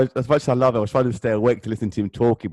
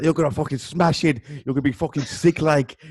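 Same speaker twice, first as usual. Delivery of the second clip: put-on Scouse accent; 5 semitones higher than usual. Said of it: "in his Scouse accent".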